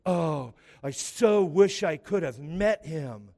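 drawn-out, swooning imitation of a fan; mock gushing fan. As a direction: imitate starstruck gushing, slowly. Mocking gushing fans' Facebook posts.

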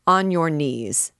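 slow, forceful order; fierce command. Acted. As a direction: bark him down to his knees. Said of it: "fiercely interrupted the king".

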